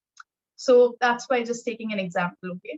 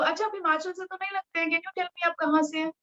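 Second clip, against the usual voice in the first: friendly asking; 4 semitones higher, faster than usual. Shown as a demonstration. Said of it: "अगर आप इतनी प्यार से पूछोगे".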